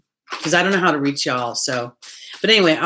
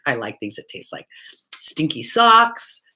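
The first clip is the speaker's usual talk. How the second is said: hushed confession. Shown as a demonstration. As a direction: drop to a whisper for "stinky socks". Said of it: "I have to stop laughing".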